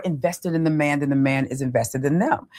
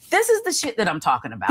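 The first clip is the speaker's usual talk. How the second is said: blunt talk; 4 semitones higher, faster than usual. Retold or imitated. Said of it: "until I would say something like".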